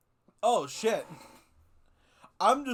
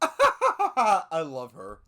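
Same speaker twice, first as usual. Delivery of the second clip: laughing delight; 2 semitones lower, 5 dB louder, much slower than usual. Real, not acted. Delighted by her comeback.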